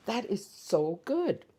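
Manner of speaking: slow, rising delight. Real, not acted.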